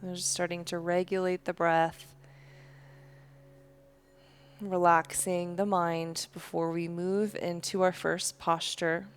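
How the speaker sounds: calm, unhurried yoga-teacher voice; guided breathing meditation. Real, not acted. Leads slow breathing meditation.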